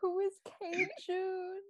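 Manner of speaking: slow, high, laughing echo of Who is K Jun; imitating the mom. Cohost echoing the mom's question, laughing and slow. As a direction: repeat her line slowly through laughter. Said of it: "She kept saying that".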